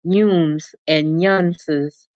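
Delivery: slow, drawn-out Southern white "yums" and "yunses"; a hint of Southern white accent, drawn out slowly; mock Southern white dialect. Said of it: "in imitation of Southern whites".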